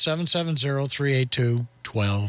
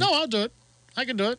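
high-pitched insistence; mock yelling; 7 semitones higher, faster than usual. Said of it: "Quit yelling".

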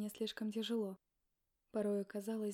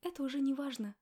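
exclaimed, louder and higher; exclamation; 4 semitones higher, 4 dB louder than usual. Acted. Wife dismissing husband's excuse, exclaiming. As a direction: brush it off with a cry. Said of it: "воскликнула я".

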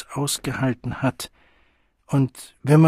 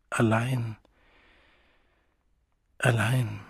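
leise, nachklingend wiederholt; leise Echo; 5 dB quieter, slower than usual. A narrator's reading. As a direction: ein Echo in der eigenen Brust. Sigmund echoes it inwardly. (Sigmund wiederholt es leise für sich)

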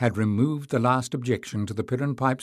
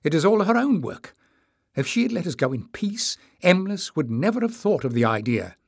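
higher-pitched blaming; hissed indignation; 8 semitones higher than usual. A narrator's reading. Jasmine blaming the mother for her loss, hissed indignation. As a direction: protest sharply, pitch raised. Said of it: "hissed Jasmine".

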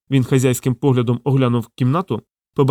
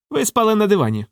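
higher, lightly voiced icy official; 9 semitones higher than usual. Modest accuses Sasha of sleeping on the sofa, a hint of ice. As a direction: freeze him with a mild chill. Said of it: "крижаним тоном".

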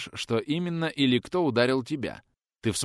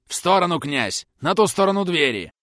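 higher, louder urgent command; shouted order; 7 semitones higher, 6 dB louder than usual. Acted. Ordering the prince aside.

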